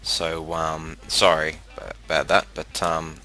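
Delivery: crackly cheap headset mic with a fan humming behind; cheap usb mic. Real, not acted. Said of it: "sorry about the microphone quality".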